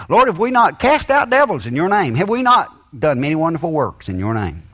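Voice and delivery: high, loud, indignant plea; pleading believers. Acted. Preacher voicing believers loudly protesting to the Lord at judgment. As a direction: protest your good works to the Lord, rising.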